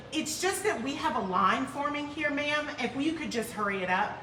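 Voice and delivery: mildly testy customer-service voice; impatient clerk. Retold or imitated. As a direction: hurry the caller along under polite wording.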